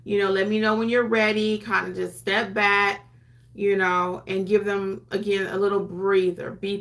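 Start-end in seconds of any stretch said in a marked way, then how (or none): 0.0-1.6 soothing, unhurried words; reassuring. Shown as a demonstration. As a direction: ease the client along patiently. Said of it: "just reassuring terms again".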